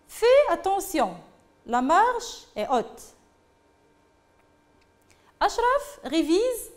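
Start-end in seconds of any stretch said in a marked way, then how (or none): 0.1-3.1 warning command. Shown as a demonstration. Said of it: "la phrase exprime un ordre".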